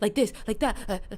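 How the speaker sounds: hurried, fast, choppy, stop-start static spurts. Explaining to listeners how a voice sounds when it comes out static: rushed, static delivery. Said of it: "coming out static, like this ... very rushed".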